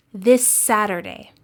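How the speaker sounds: "This Saturday" joined by one held S; one long S in "This Saturday", no gap; linked consonants. Shown as a demonstration. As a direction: stretch the shared S between "This" and "Saturday". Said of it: "you hold that sound a little longer".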